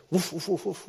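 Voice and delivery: mock barking. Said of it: "barked at, you know".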